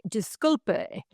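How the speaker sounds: put-on husband parroting a Spanish accent; lightly mimicked Spanish accent; imitating Spanish pronunciation. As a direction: repeat it like a proud learner of Spanish accent. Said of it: "he's really good at one word".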